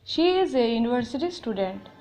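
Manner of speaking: slow, carefully spaced words; teacher dictating an example, slow; slow example reading. Shown as a demonstration. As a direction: read the example slowly for the class. Example sentence read out.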